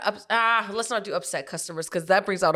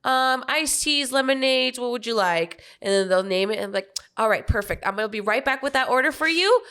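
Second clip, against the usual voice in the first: higher, cheerful order-taking; server voice; 4 semitones higher than usual. Shown as a demonstration. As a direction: chirp through the drink order. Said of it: "what I would say when I walk up to my tables".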